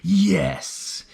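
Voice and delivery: slow, high, proud mad-scientist goblin; a gleeful goblin inventor showing off his rock; goblin weaponsmith voice. Pretend. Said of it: "Our weaponsmith".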